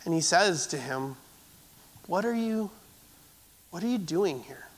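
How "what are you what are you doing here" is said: soft, gentle question, hushed; still small voice. Acted. God gently asks Elijah why he is there, softly. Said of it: "God whispers to him in a still small voice".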